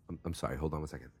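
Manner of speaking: hushed aside to a client; mock lawyer's private consultation; confidential aside. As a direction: drop to a soft mumble, off the record.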